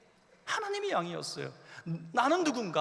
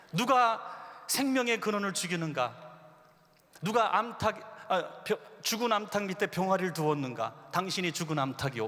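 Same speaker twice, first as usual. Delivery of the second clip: accusing sermon line. Retold or imitated. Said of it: "뭐 이런 설교를 했단 말이에요".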